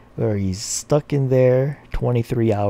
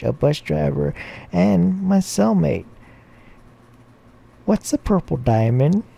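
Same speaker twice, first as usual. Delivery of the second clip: put-on high-pitched child reciting a list; little boy; 6 semitones higher than usual. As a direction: rattle off the list in a raised kid voice. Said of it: "says Billy".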